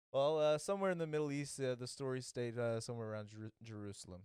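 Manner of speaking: halting, lightly acted admission full of uhs; mock reluctant. Defendant conceding Jesus' birthplace, mock reluctant. Reluctant answer in retold case.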